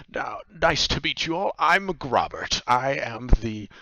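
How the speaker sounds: put-on odd old man greeting. Grobert introduces himself to the three adventurers, high-pitched.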